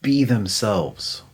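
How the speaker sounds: very slow, effortful words; slowly voicing his wife's careful reply; husband retelling his wife's slow answer, effortful; slow imitation of wife. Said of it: "she goes".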